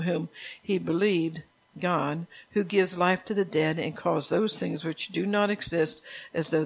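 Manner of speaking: measured, earnest Bible reading aloud; scripture reading. Acted. Reads scripture passage aloud.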